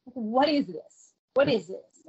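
slow, measured mock-stern question; a touch of stern disbelief; mildly stern. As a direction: lightly imitate a stern interrogator. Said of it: "kind of sternly".

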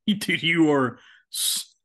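laughing through the words, voice rising. Real, not acted. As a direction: crack up while teasing him. Laughing at stoned friend.

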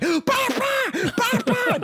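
high yapping through laughter; toddler barking. Retold or imitated. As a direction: yap like a toddler. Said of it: "he's like".

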